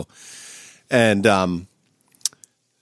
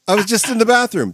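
retold bewildered protest; 9 semitones higher, faster than usual.

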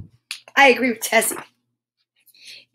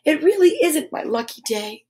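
higher, mildly upset character voice; tearful; 4 semitones higher than usual. A narrator's reading. Noddy upset at his bad luck, mildly tearful. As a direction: lament it as if tears are starting. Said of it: "bursting into tears".

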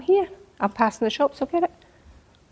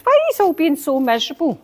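raised, urgent preachy plea; rally them like a street preacher; retold preaching; 6 semitones higher than usual. Telling gloomy relatives to cheer up, preachy and raised. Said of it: "I started to almost preach to them".

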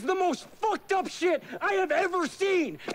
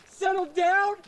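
rising indignation; 5 semitones higher, slower than usual. Acted. Nick, told to settle down, snaps back with rising anger. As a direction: throw "Settle down?" back at him, offended.

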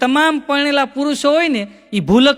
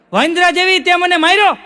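shocked husband; 6 semitones higher than usual. Retold or imitated. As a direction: yelp in shocked outrage after the slap. Husband shocked after being slapped. (થપ્પડ ખાધા પછી ચોંકીને ચીસ પાડતો પતિ)

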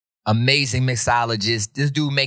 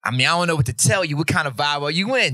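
higher-pitched, lightly voiced waitress; imitated waitress; 4 semitones higher than usual. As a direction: quote a waitress quizzing a customer, pitched up. Acting the waitress asked for advice.

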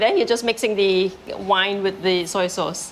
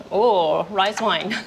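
laughing; much slower than usual. Real, not acted. Laughs at the soy sauce mix-up.

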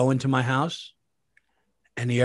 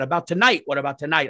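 retold panic; faster than usual. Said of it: "I start freaking out".

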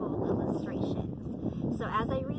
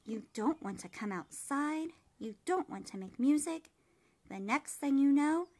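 scolding mother. Acted. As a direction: scold the child, building in volume. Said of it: "his mother scolded".

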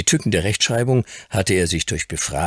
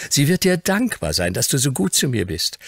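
put-on high, animated child voice; lively chatter; 9 semitones higher, 3 dB louder than usual. A narrator's reading. Grandson chatters gratefully to the Earl, lively. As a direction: bubble over with gratitude, pitched high. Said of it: "Umso lebhafter war Fauntleroy".

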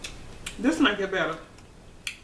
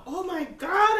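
pained shout; 6 semitones higher than usual. Real, not acted. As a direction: yell it as the heat hits. Reacting to burning pepper.

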